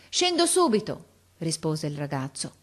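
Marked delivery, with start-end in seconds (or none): 0.1-1.1 very high-pitched reply; calling back. A narrator's reading. Boy answers irritated officer, calling. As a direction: call it lightly down from the branches.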